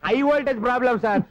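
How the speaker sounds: high-pitched, emphatic blurt; not softly, blurted. Acted. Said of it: "ఆ మాట మెల్లగా కూడా చెప్పొచ్చాయా".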